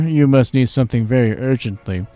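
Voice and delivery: lightly voiced fond old innkeeper; NPC innkeeper.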